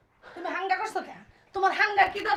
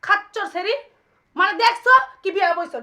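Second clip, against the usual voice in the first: angry yelling; 3 semitones higher, 5 dB louder than usual. Acted. Wife yells at the new bride.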